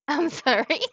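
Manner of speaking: giggling apology; laughing. Real, not acted. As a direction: laugh through it. Laughing apology after screaming.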